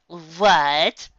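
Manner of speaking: can't believe what she heard; a creature's stunned question; baffled what. Acted. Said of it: "Yellow Eyes blinked furiously".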